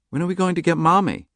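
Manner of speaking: put-on high child voice, hopeful; little girl asking. A narrator's reading. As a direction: ask for Mommy like a small girl.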